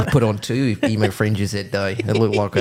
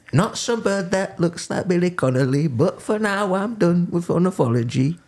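imitating a singer; 9 semitones higher than usual. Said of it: "when a singer raps".

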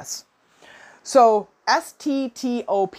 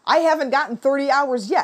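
imitated coworker's gripe, higher pitched; mock complaining; 5 semitones higher than usual. Retelling what this lady says in the other breath, mock complaining. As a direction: raise the pitch to mimic her complaint. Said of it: "complaining out of both sides of her face".

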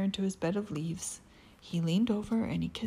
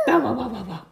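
big dog bark; 5 semitones higher, 8 dB louder, faster than usual. Acted.

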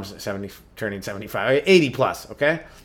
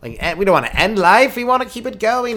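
put-on old person pleading; 8 semitones higher, 7 dB louder than usual. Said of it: "you go".

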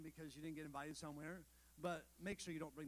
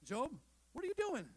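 a booming challenge from the whirlwind, higher and louder; God speaking to Job; 6 semitones higher, 6 dB louder than usual. Retold or imitated. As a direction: call out to Job like God from the storm. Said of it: "comes out of the whirlwind and says".

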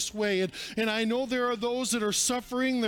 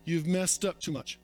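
enemy's accusing voice; 4 semitones lower, 3 dB quieter than usual. Acted. Preacher voicing the devil's low accusations. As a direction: hiss out each name like the devil.

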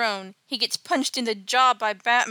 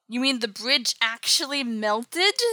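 mock disbelief; 2 semitones higher, slower than usual. Acted disbelief at bridge news.

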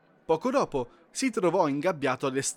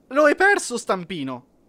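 shrill, much higher and louder cry; frantic exclamation; 8 semitones higher, 9 dB louder than usual. Acted. Crazed penguin shouts at the elf, frantic cry. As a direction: blurt it out in frantic panic. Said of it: "esclamò questo".

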